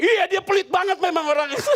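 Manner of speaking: high, gleeful gossipy agreement; high laughing complaint; gleeful agreeing. Retold or imitated. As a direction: dish the gossip once safely away. Pastor agreeing out of earshot.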